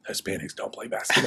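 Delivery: joking echo. Retold or imitated. Joking back at mom about her old warning, teasing. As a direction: toss it off as a running joke. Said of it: "So I joked along the way".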